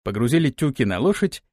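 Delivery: usual speaking voice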